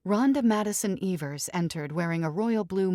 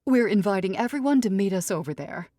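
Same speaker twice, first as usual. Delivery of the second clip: haughty mother fussing over daughter; dramatic society mother; 4 semitones higher, 5 dB louder than usual. Acted. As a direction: sweep in like a grand matriarch. Mrs Evers voice.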